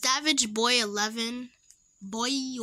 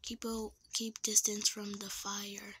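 whispering; 3 semitones lower, 9 dB quieter than usual. Real, not acted. Careful in game, whispering.

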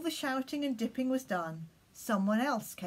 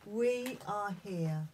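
prayer. Acted. Leads children in prayer.

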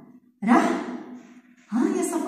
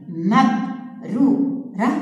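slow syllable drawl; 2 semitones lower, much slower than usual. Shown as a demonstration. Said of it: "نأتي إلى كلمة".

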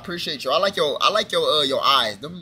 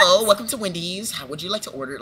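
customer service voice. Retold or imitated. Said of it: "work voice".

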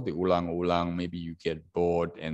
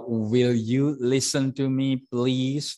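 polite request; 5 semitones higher, 4 dB louder, slower than usual. Shown as a demonstration. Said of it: "That is very polite request".

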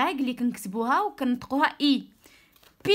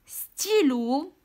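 ستيلو whispered slowly; 2 semitones higher, much slower than usual. Shown as a demonstration. Teacher whispering ستيلو to the class, slow. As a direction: breathe ستيلو out without voice. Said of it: "teacher models word reading".

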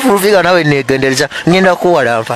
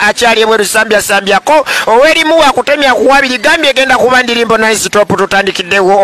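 hype emcee; 4 semitones higher than usual. Acted. Emcee style hype intro.

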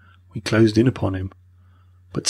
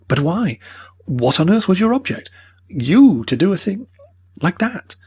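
reproachful; 9 semitones higher than usual. A narrator's reading. Mortimer's reproachful demand.

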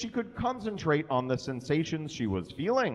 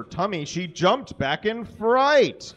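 laughing while reading; 6 semitones higher, 6 dB louder than usual. Real, not acted. Reader cracks up mid-story.

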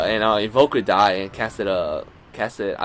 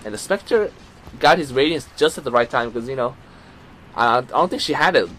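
play-by-play; 3 dB louder than usual. Acted. Live play-by-play of the match.

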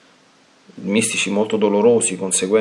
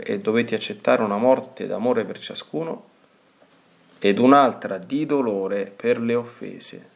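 devotional reading; 3 semitones higher than usual. Acted. Priest reading the diary to the faithful, solemn and measured. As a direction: read each line reverently, like a prayer. Reads aloud a mystic's diary.

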